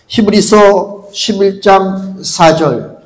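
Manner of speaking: reference repeated slowly and deliberately. Shown as a demonstration. Preacher repeats the verse reference slowly so people can find it. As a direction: say it again, slow, for the congregation to find.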